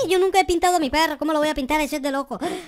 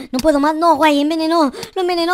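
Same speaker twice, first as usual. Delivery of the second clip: despairing cry; 5 dB louder, faster than usual. Acted. Dog poisoned, despairing cry.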